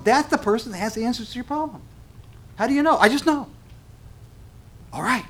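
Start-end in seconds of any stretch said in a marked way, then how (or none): 2.5-3.0 skeptical question. Acted. Preacher voicing a doubter. 3.0-3.5 naive certainty. Acted. Preacher voicing a believer.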